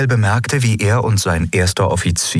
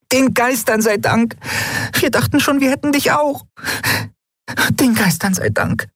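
put-on high, bright girlish character voice; a much higher voice, gushing with relief; Nelen's voice. A narrator's reading. Nelen hugs Endriel, relieved she survived, high girlish voice.

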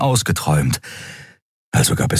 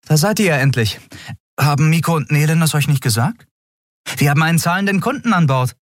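put-on higher, brisk young woman's voice; young captain Andriel; 10 semitones higher, faster than usual. A narrator's reading. Captain explains to her crew, lively and quick. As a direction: lift it up and push on briskly.

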